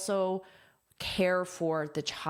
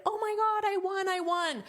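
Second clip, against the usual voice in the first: much higher, squealing with joy; ecstatic; 13 semitones higher than usual. Retold or imitated. Winner reacting to the award, high excited squeal. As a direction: gush like you just won the award. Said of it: "So she started".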